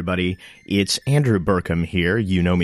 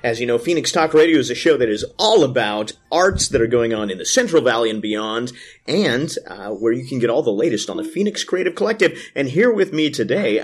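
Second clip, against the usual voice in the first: light on-air host delivery; a hint of smooth announcer; radio voice; 2 semitones higher than usual. Real, not acted. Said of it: "Your radio voice just turned on".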